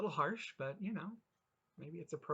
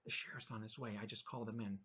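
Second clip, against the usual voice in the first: hushed, much softer aside; whispered; 6 dB quieter, faster than usual. Acted. Cook whispering to the waitress, hushed and soft. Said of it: "He whispered into the waitress's ears".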